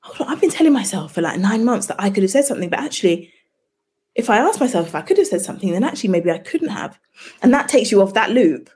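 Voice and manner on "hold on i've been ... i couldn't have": realising client. Retold or imitated. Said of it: "And you go".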